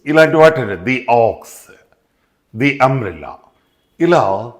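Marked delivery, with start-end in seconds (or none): 0.6-3.3 each the said as dee, before ox and umbrella; long ee in the, in both examples. Shown as a demonstration. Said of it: "ది అని పలకాలి".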